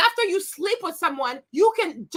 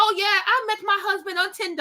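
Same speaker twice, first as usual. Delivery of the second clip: slight, put-on British accent; 3 semitones higher than usual. Speaker quotes a woman she met, in her fake british accent. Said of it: "with her little fake ass British accent".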